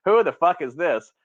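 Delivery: snapped into the phone with an edge; mock gruff phone answer. Retelling answering a stranger's call, mock gruff. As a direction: answer an unknown number with attitude.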